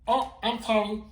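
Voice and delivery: squeaky monster apologising; loud monster apology. Acted. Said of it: "he's a little bit loud".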